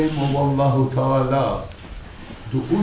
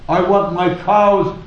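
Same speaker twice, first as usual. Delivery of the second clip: mildly raised mock shout; retold shouting; 3 semitones higher than usual. German outside the Sultan's tent demanding his cows, mock shouting. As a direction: call it out insistently, only half shouting. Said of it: "some German screaming and shouting".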